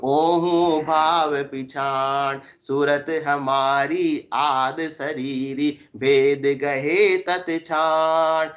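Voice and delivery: very slow recitation with long held syllables; intoned verse. Acted. Preacher reciting scripture on true awareness, intoned verse. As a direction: draw out every word of the verse.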